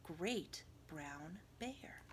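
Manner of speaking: hushed storybook whisper. A narrator's reading. Narrator whispering to sleepy children. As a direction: breathe it softly like a secret.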